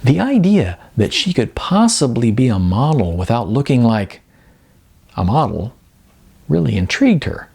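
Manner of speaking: measured storyteller reading, lightly voiced characters; story narration. A narrator's reading. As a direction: read it like an author presenting his own novel. Reads his novel aloud.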